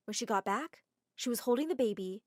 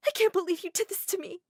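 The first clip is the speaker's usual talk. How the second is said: hurt accusing; 8 semitones higher, 4 dB louder than usual. Acted. Girl slaps Adam.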